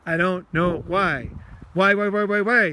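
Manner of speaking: frustrated venting. Shown as a demonstration. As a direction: vent at yourself about a feeling you can't shake. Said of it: "you can talk like that".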